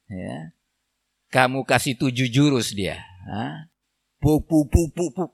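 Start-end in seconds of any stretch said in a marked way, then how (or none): 4.2-5.3 quick mimicked blows, "puk puk puk"; imitated punching sounds. Mocking a husband's seven silat moves, imitated blow sounds. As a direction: mime a volley of hits with the mouth.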